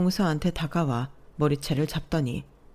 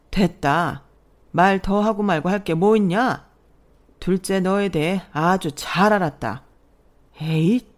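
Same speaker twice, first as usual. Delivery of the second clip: stern father-in-law; 4 dB louder than usual. Acted. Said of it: "호령을 하셨어요".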